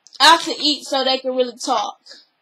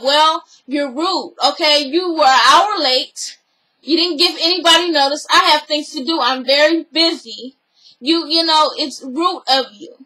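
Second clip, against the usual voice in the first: mock scolding. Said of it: "the way Cynthia was talking to Portia was very aggressive".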